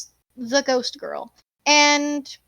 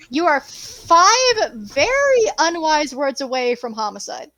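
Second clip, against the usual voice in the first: slow, menacing build to homicide; ominous warning; slower than usual. Acted. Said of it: "ominous GM warning".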